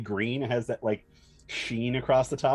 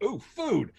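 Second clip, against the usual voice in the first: goblin voice; 11 semitones higher than usual. Acted.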